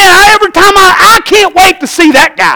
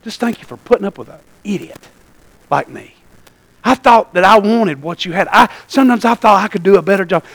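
tearful thanks; 8 semitones lower, 8 dB quieter than usual. Retold or imitated. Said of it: "I started weeping".

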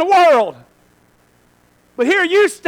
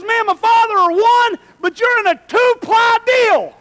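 a hint of a loud, higher God's voice; God's voice declaring his claim, slow at the end; preacher voicing God reassuring believers; lightly voiced God; 6 semitones higher, 5 dB louder, slower than usual. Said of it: "He goes".

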